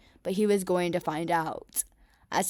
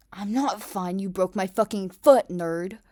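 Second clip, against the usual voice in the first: loud, indignant yell; angry complaint; 8 dB louder than usual. Acted. Kacchan yelling at Deku about his broken foot, angry. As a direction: shout it, furious and in pain.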